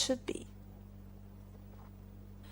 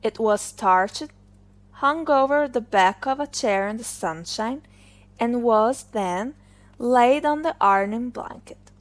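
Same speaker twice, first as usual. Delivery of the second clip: ordinary delivery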